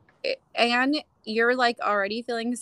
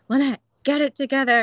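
mock stern command; 5 semitones higher, 7 dB louder, faster than usual. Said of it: "he was just like".

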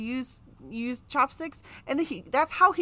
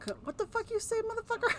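movie quote voice; 12 semitones higher, 5 dB quieter, faster than usual. Retold or imitated. Quoting movie line.

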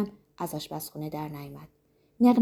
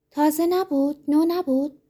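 تازه نبود pitched much higher, falling at the end; incredulous question; 9 semitones higher, 5 dB louder, slower than usual. Acted. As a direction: echo it back in disbelief. Disbelieving echo of the denial.

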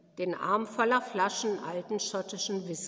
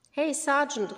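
raised call across the room; an old lady calling the sergeant from her corner, raised; 6 semitones higher than usual. A narrator's reading. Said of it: "rief Miss Flora Goodgoose".

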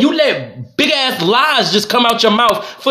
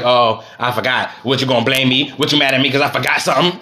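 mocking wife; 8 semitones lower than usual. Mimicking his wife's excuses.

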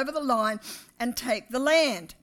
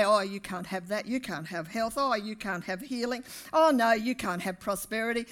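mock taunting; 2 semitones lower than usual. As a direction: needle them like the enemy would. Mocking the enemy's taunt.

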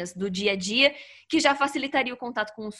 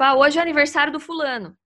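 FULANO as a louder, higher statement, falling at the end; affirmative statement; 4 semitones higher, 6 dB louder than usual. Retold or imitated. Retelling dad's birthday message, as an affirmative statement. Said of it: "E era uma afirmação, tipo".

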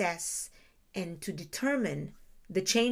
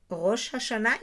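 Rosh Hashanah with Hebrew sounds, guttural h; Israeli accent. Shown as a demonstration. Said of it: "in Israeli accent".

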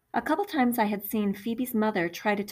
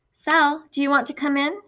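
calling out; 7 semitones higher, 6 dB louder than usual. A narrator's reading. Neighbor calls to Sal.

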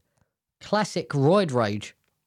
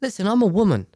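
straightforward firm assertion, raised pitch; suggested better way; 5 semitones higher, 4 dB louder, faster than usual. Shown as a demonstration. Showing a listener how to tell him, firm and direct. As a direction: assert it plainly, without the swooping theatrics. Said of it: "Say it like".

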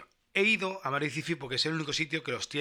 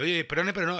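indignant retort; 4 semitones higher, 4 dB louder than usual. Retold or imitated. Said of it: "le digo yo".

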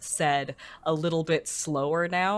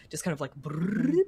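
imitated folder sound. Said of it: "the sound of kind of".

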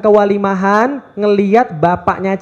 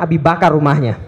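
laughing joke; 4 semitones lower than usual. Real, not acted. Joking threat to boys.

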